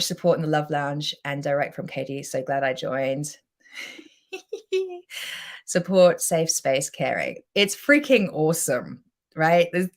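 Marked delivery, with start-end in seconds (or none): 4.3-5.6 short high-pitched delighted giggle; a quick bright laugh; soft high laugh under the breath. Real, not acted. Reacting to glowing comments.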